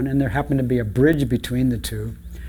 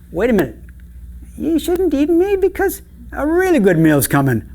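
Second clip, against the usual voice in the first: higher, louder urgent protest; protesting goat; 14 semitones higher, 4 dB louder than usual. Acted. Medium goat talking troll out of eating him, raised protest.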